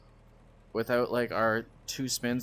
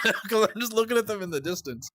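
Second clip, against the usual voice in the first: higher, words broken by laughter; laughing while talking; 10 semitones higher, 4 dB louder than usual. Real, not acted. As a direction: talk through the giggles. Laughs watching cars.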